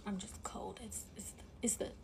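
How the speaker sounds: hushed, mumbled excuse; mock whisper. Boyfriend whispering an excuse, hushed. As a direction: whisper it like hiding something.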